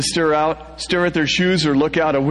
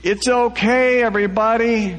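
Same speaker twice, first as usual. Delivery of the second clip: higher yell; 7 semitones higher than usual. A narrator's reading. Narrator yelling after fleeing passengers. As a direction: call after the crowd. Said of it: "I'm yelling after them".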